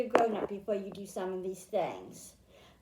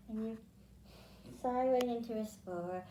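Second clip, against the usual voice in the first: sleepy soothing voice; 6 dB quieter than usual. Shown as a demonstration. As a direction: hush it down as if half asleep. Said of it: "telling her puppy to go to sleep".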